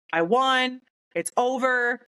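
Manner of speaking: high, elated announcement; triumphant. Retold or imitated. Calls friends to announce victory.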